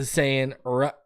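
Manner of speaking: normal talking voice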